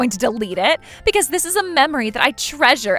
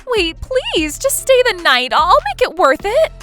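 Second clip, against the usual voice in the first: high, loud pleading woman; yelling out; 12 semitones higher, 10 dB louder, slower than usual. A narrator's reading. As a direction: yell a desperate plea after him. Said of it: "Alyssa kept yelling out endlessly".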